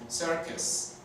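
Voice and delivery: circus slowed down, serkes with a schwa; slow English demo. Shown as a demonstration. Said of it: "la U al final suena como E".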